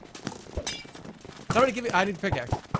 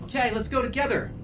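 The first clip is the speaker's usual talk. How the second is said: talking to a dog; 3 semitones higher than usual. Acted. Playing with dog Otto.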